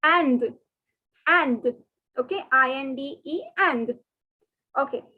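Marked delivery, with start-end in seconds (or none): 0.0-1.8 Inde said like English and, nasal; teacher models Inde; French Inde. Shown as a demonstration. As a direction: sound out Inde just like and. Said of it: "the pronunciation for the word India in French is".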